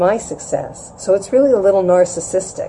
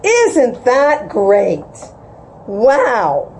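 enthusiastic parents; 4 semitones higher, much slower than usual. Retold or imitated. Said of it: "That's how they talk".

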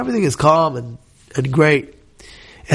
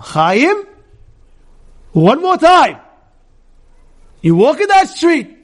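higher and louder, stern warning; firm raised voice; 9 semitones higher, 3 dB louder, slower than usual. Shown as a demonstration. Parent warning child Chaim firmly, with a raised voice. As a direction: lay down the law to your child. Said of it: "raise your voice a little bit and firm".

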